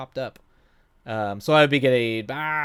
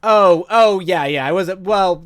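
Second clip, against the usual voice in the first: surprised; 6 semitones higher, 11 dB louder than usual. Real, not acted. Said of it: "reacting to chat comment".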